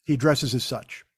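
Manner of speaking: slow, deadpan reading; dry quoted text message. Retold or imitated. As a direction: read it out as a measured afterthought. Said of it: "And, uh, it says".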